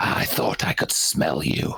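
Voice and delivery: low, rough, rasping hissed words. Voicing a foe who just failed a save, she hisses at the player. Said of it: "she hisses at you".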